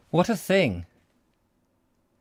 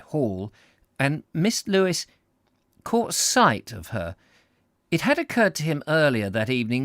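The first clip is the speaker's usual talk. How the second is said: measured, emphatic storybook reading; story narration; 5 semitones higher, 5 dB louder than usual. A narrator's reading. Narrator reads comic story to listeners, expressive narration. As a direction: savour each descriptive phrase.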